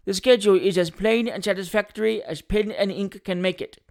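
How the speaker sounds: lightly voiced legal man; attorney's assurance in a character voice; a hint of a pompous lawyer; self-assured attorney. Attorney reassures the coachman.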